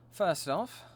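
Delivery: mock British accent, lightly put on; bad British accent. Streamer repeating herself before upgrading gear, in a shoddy British accent. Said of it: "a shitty British accent".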